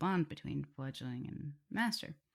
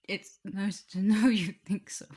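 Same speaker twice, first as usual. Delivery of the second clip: whisper; 5 semitones higher, 8 dB louder than usual. Acted. Touched, flustered.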